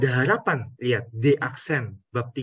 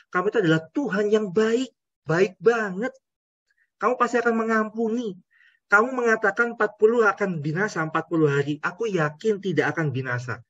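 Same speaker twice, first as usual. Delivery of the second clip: lightly voiced sulky prophet; a hint of an indignant Jonah; Jonah complaining; 5 semitones higher than usual. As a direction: speak as a grumbling Jonah. Preacher voices Jonah to God.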